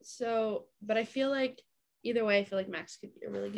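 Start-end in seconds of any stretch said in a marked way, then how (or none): 2.0-3.6 choking mid-sentence on a drink. Real, not acted. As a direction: talk while starting to choke on a drink. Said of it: "I'm choking".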